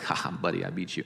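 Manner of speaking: gloating taunt. Retold or imitated. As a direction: tease a beaten rival like a smug kid. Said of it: "Elijah's over there like".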